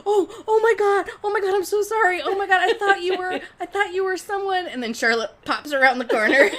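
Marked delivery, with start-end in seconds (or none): 0.1-4.7 high, loud, flustered oh my God; mortified apology. Retold or imitated. Anne realising she touched a stranger, loud high mortified apology. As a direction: gush out apologies, embarrassed and laughing. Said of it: "and she's like".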